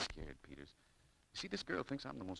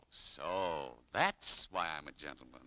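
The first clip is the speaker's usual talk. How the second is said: sarcastic; 4 semitones lower, 4 dB louder, much slower than usual. Acted. Realizes he was flattered.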